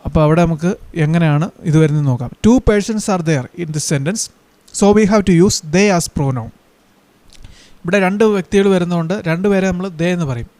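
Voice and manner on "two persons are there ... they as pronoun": very slow, each word set apart; slow dictation. Shown as a demonstration. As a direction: spell out the rule slowly for the class to write. Teacher dictates the rule in English. (വളരെ പതുക്കെ, ക്ലാസിന് എഴുതാൻ)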